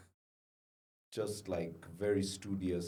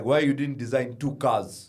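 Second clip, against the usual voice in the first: disappointed dad; 5 dB louder than usual. Retold or imitated. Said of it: "my dad was like".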